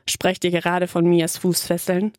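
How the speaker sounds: a hint of a deep male bass; lightly voiced man with a bass voice, teasing from the door. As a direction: stranger cutting in with a lightly deepened bass. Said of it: "der tiefen Bassstimme".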